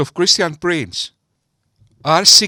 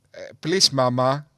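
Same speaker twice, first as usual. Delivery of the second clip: mock fear; 3 dB quieter than usual. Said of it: "I'm so scared".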